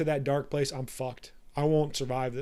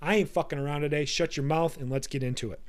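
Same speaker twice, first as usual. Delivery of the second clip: boss voice. Retold or imitated. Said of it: "switch it over to the boss voice that says".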